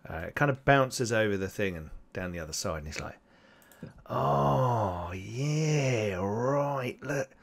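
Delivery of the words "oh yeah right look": lightly voiced greedy goblin; a hint of a gloating goblin slurping; goblinoidy voice. Goblin with the claw, lightly voiced greedy glee. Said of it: "the voice sounded, sort of goblinoidy".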